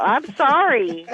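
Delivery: slow, yawning through the words. Real, not acted. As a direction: say it mid-yawn. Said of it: "That's why I'm yawning".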